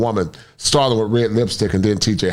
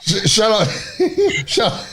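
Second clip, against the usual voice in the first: laughing shut up; 10 semitones higher than usual. Real, not acted. Joking reaction with laughter.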